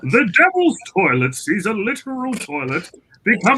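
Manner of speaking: high-pitched theatrical trailer read; thespian tone. Pretend. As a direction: declaim it like a hammy stage actor. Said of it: "with a thespian tone".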